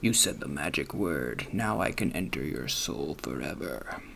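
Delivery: very deep, soft, sinister devil voice. Speaker acts out the devil talking to someone who cursed, devil voice. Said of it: "That's how the devil works".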